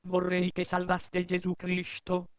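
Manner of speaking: put-on high squeaky kid voice; child voice. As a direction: plead like a little kid. Child asks a favour.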